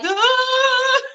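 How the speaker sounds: high squealed Ah of panic; replayed high-pitched shriek of alarm; mock panicked scream. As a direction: squeal it out like a freak-out. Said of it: "a good few minutes of me like".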